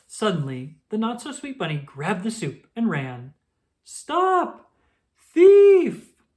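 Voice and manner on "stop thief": high, loud shout after a thief; crying out. A narrator's reading. Squirrel shouts at the rabbit who stole the soup, high and loud. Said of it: "cried Evergreen".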